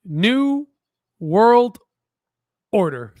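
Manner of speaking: ominous reveal. Retold or imitated. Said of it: "he says this".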